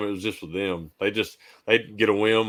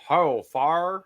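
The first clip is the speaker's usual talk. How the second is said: high, loud North Carolina drawl; North Carolina accent; 8 semitones higher, 4 dB louder than usual. Retold or imitated. Imitating North Carolina workmates, thick North Carolina accent. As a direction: imitate a Carolina twang, "fire" as "far". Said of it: "North Carolina that I used to work with".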